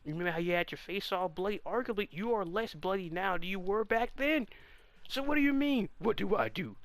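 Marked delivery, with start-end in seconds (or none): 5.1-6.8 exasperated. Real, not acted. Mocking the character's question.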